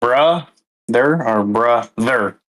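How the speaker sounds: "Bruh, there" split in two, trying each stress; syllable stress demo. Shown as a demonstration. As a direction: break brother into "bruh" and "there" to compare. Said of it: "Emphasis on the first syllable".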